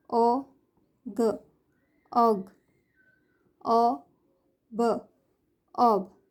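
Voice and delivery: each sound said alone then blended, slow with pauses; phonics blending drill. Shown as a demonstration. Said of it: "ओ family words". (ध्वनि तोड़कर फिर जोड़ना)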